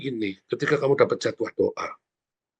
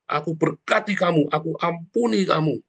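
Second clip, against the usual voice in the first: higher-pitched, proclaimed blessing; bold declaration; 6 semitones higher than usual. Shown as a demonstration. Preacher models a daily declaration for the congregation, proclaiming. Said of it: "kita deklarasi terang itu".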